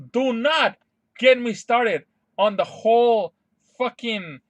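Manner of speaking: loud, slow, emphatic warning; real worked-up rant. Real, not acted. Fan warning not to get them started, worked up. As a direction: stretch it out in loud exasperation. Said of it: "I'm getting worked up".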